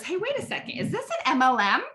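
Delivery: high-pitched acted interruption; questioning prospect. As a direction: play a prospect stopping to question. Acting out a wary prospect's question.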